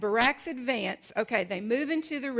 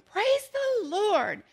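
put-on very high, slow child's voice, drawn out; little boy praising; 11 semitones higher, 5 dB louder, much slower than usual. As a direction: sing it out like a delighted little boy. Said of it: "he hears the little boy going".

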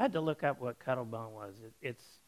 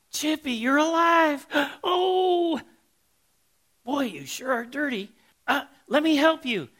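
much higher, loud gushing cry of relief; overjoyed owner; 12 semitones higher, 10 dB louder than usual. Retold or imitated. Owner finds her dusty canary alive in the bag, much higher loud relieved gush. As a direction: squeal with relief as the frantic lady. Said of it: "And she goes".

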